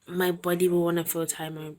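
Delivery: normal talking voice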